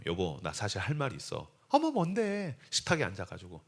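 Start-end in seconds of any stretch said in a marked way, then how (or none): 0.1-1.5 low, soft husband's confession; hushed confession. Acted. Husband confessing to his wife, hushed confession. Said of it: "고백을 하는 거죠". 1.7-2.6 lightly voiced wife, higher pitch; a hint of a curious wife. Wife asking her husband, lightly acted curiosity.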